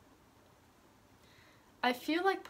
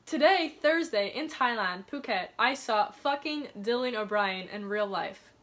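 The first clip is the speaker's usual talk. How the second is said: excited diary reading; 2 semitones higher, 5 dB louder than usual. Retold or imitated. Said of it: "And then I wrote".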